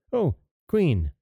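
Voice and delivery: high dwarf voice calling down; sly dwarf. A narrator's reading. Dwarf voice in the tree.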